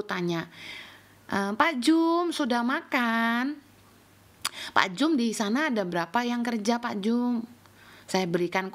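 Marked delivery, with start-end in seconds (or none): 1.3-3.5 slow, drawn-out friendly inquiry; considerate, slow-paced greeting; kind, never rough. Retold or imitated. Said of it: "Saya tidak pernah kasar sama mereka". 4.7-7.5 polite, unforced question to a worker; easygoing, respectful inquiry; kind, never rough. Retold or imitated. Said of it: "Saya tidak pernah kasar sama mereka".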